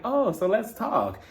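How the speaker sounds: stretched-out, put-on prompt to chat; mock eager opener. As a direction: imitate someone launching into a talk. Retold sudden turn to serious talk.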